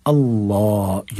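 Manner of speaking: अल्लाह with a thick, dark L and long vowel; slow अल्लाह, the L made heavy; heavy, full L. Shown as a demonstration. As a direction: draw out अल्लाह with a full-mouthed L. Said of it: "मोटा करके पढ़ेंगे".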